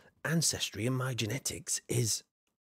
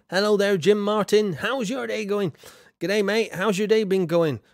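bright greeting; 6 semitones higher, 5 dB louder than usual. Real, not acted. Greeting viewer, Australian g'day.

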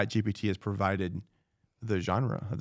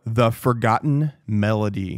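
louder, slow grand title reading; dramatic announcement; 6 dB louder, slower than usual. Shown as a demonstration. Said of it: "Oh, God".

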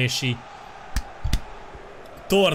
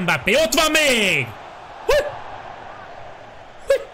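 excited shout; 10 semitones higher than usual. Real, not acted. Chance in the match.

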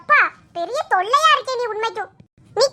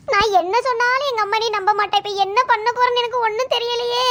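whiny lament. Acted. Girl panicking over missed homework, whimpering. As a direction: whimper it like a cornered kid.

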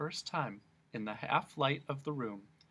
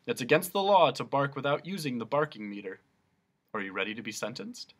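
policeman voice; 5 dB louder, faster than usual. Acted.

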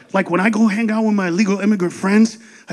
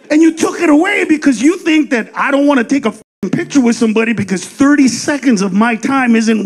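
ranting. Retold or imitated. Ranting at the waiter.

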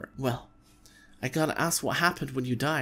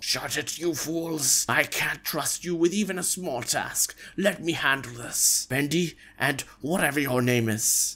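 stern dark lord voice; villain overlord. Acted. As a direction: command them like a villain lord. Overlord addresses fools.

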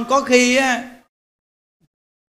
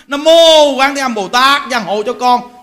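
louder, slower burning prayer; fervent loud Nam mô Quán Thế Âm Bồ Tát; 5 dB louder than usual. Shown as a demonstration. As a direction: call out the prayer with fiery zeal. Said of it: "là hừng hực lễ liền".

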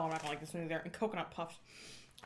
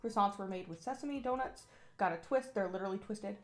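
lively announcer read of the blurb. Acted. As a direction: narrate it like a product commercial. Reads the product script.

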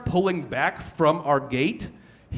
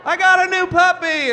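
much higher and louder puppy squeal; mock excited post; 12 semitones higher, 7 dB louder than usual. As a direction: gush over the new puppy. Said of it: "mock social media post".

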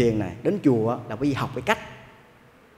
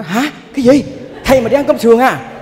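louder, higher retold cry of disbelief; shocked outcry; 8 semitones higher, 7 dB louder than usual. Food seller to monk ordering pork rib rice, shocked outcry. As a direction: mimic her crying out, loud and high. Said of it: "Cái nó la lên".

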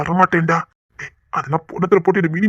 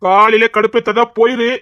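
annoyed scolding; 3 semitones higher, 5 dB louder, slower than usual. Acted. Scolding the caller.

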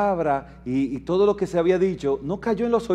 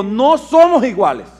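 proclaimed cry; 3 semitones higher, 5 dB louder than usual. Retold or imitated. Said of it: "David clamó a eso".

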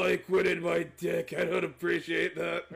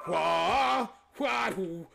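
karate yell; much slower than usual. Pretend. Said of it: "I did the karate nose".

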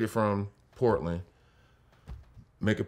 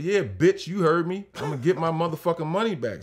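mock defiant shout; 6 semitones higher than usual. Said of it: "I said".

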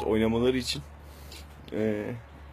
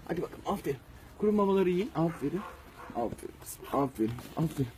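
talking to a dog; 4 semitones higher, 4 dB quieter than usual. Real, not acted. Soft praise while feeding.

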